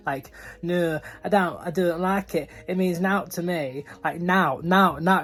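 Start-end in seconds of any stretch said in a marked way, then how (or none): 0.6-3.8 amateur Yorkshire accent, a little louder; rough attempt at a Yorkshire accent. Shown as a demonstration. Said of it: "say that in a Yorkshire accent". 4.2-5.2 loud, repeated Yorkshire "now"; emphatic amateur Yorkshire attempt; Yorkshire accent. Shown as a demonstration. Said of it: "say that in a Yorkshire accent".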